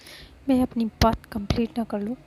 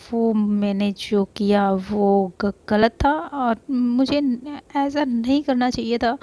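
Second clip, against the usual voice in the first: hesitant confession; 5 dB louder, slower than usual. Acted. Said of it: "वो गहरी सांस लेती है".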